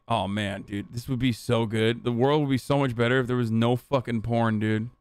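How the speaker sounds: mock-earnest anti-porn bro; mocking quote. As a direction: parody someone earnestly wishing porn away.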